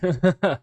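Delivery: 笑声; laughing. Real, not acted. Laughs while greeting a friend.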